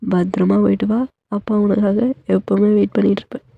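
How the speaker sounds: a father reassuring his crying daughter; a hint of a fond, steady father; comforting father. Narrator voices the father.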